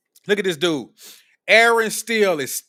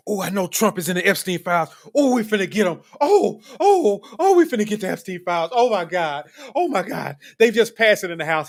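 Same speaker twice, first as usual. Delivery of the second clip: mock excited. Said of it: "you know who Aaron is?".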